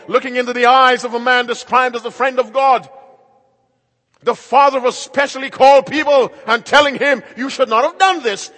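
loud, ringing pulpit delivery; full-force preaching. Acted. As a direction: preach it out to the whole hall. Preaches about misleading the world.

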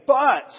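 But punched out high and loud; stress on But. Shown as a demonstration. Preacher showing the congregation how to meditate, with But heavily stressed. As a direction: hit "But" hard as one emphatic word. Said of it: "I'm emphasizing a different word".

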